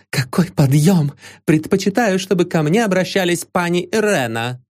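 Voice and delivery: put-on a young lady gushing in giddy nervous bursts. A narrator's reading. Irena greets Vanzarov at the celebration, high giddy gush. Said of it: "оборвав поток рваных фраз".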